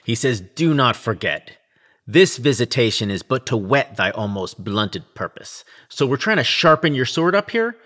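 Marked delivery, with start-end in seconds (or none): 0.4-5.6 solemn ghost intoning. Retold or imitated. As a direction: intone it gravely, like a ghost from beyond. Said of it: "very solemnly intones".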